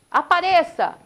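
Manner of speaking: high, loud command; boy shouting at the echo; demanding shout. Retold or imitated. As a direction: yell at the hidden voice to show itself. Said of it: "e fala".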